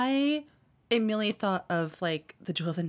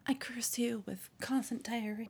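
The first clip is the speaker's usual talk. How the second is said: laying a curse; 4 semitones higher, 6 dB quieter than usual. Acted. Joking curse in whisper.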